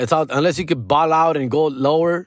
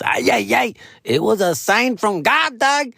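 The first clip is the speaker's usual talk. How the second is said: high, drawn-out dramatic lament; mock-dramatic high wail; exclaiming; 8 semitones higher, slower than usual. Real, not acted. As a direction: cry it out slowly as a revelation, pitch climbing high. Mock-dramatic cry at divine sign.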